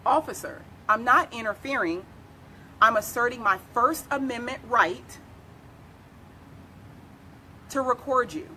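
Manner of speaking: calm, measured reply with deliberate pauses. Shown as a demonstration. Citizen answering an officer who accuses them of interfering, calm. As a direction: state it evenly, pausing before the last phrase. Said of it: "You calmly res-, reply and you say".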